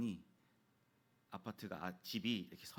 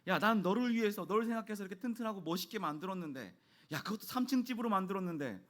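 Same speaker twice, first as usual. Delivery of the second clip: raised, higher exasperated dad voice, re-enacted; angry scolding; 7 semitones higher, 5 dB louder than usual. Dad retelling how he scolded his son, higher and exasperated. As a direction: act out an indignant parent's outburst. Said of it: "굉장히 화가 났죠".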